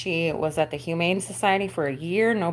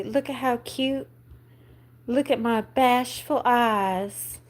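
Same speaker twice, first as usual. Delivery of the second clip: dog's cute pretend voice; 5 semitones higher, slower than usual. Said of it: "Can you say".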